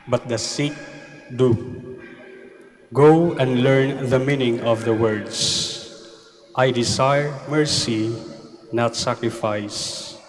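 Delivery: slow, solemn Gospel reading; Gospel proclamation. Acted. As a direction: proclaim it from the pulpit.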